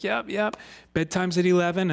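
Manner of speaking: high, offhand yep from a careless sitter; airy babysitter. Retold or imitated. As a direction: toss it off like a distracted teen. Babysitter in commercial.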